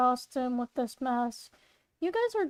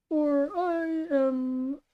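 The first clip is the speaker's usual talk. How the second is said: trying a voice; much slower than usual. Acted. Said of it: "that's just an interpretation of my voice".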